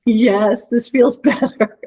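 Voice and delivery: amused, a little sheepish; laughing agreement. Real, not acted. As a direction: laugh breaking through the words.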